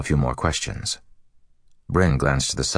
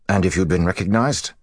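demanding; 6 semitones higher, 3 dB louder than usual. Acted. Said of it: "he demanded".

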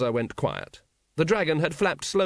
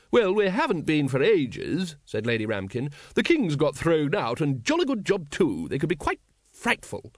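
higher-pitched, emphatic aristocratic lady; Lady Ramkin; 4 semitones higher than usual. Acted. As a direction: play the breezy lady, pitched up.

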